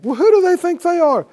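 high, loud scoffing sneer; mock indignation. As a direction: sneer it like someone offended.

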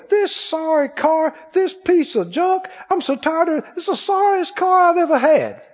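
whiny griping about the car; mock grumbling at a sorry car; complaining. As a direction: gripe about your old junk car. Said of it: "You go".

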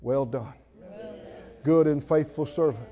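soft, low voice of the Lord; a hushed divine commendation; quoting the Lord. Retold or imitated. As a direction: say it gently, like a blessing.

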